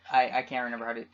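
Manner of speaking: low, faltering stab at a Russian accent; badly faked Russian accent, losing the thread. Shown as a demonstration. Podcaster showing off bad accents, halting Russian accent. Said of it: "this is my Russian accent".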